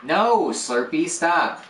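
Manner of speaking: high, loud, slow command; loud, drawn-out order to a pet; scolding the dog. Real, not acted. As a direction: tell the dog firmly to stop.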